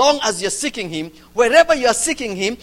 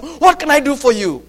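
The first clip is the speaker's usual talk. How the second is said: higher and louder, calling over the noise; loud question; 5 semitones higher, 7 dB louder than usual. Acted. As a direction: shout the question across the chaos. The question shouted amid the noise.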